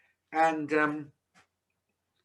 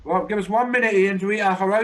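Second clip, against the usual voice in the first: calling out; 4 semitones higher, 5 dB louder than usual. Real, not acted. Calling out to Ian online.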